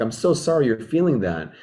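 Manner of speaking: gently sympathize with an upset friend; empathetic. Shown as a demonstration. Comforting an upset friend, soft and sympathetic. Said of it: "Then I need to tune into empathy".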